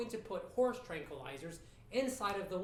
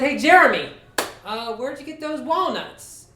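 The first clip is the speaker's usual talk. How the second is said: casual questioning; 8 semitones higher, 14 dB louder than usual. Retold or imitated. Man pulls up beside neighbour kid to ask, casual questioning.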